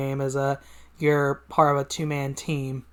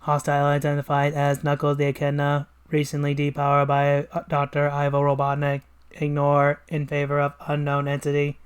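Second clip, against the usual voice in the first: flat, monotone machine; robot voice. Acted. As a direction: speak like an obedient robot. Robot reports.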